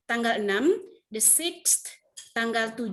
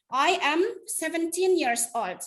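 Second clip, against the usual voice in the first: slow example sentence; 5 semitones higher, slower than usual. Shown as a demonstration. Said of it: "Kalau misalnya umur kalian".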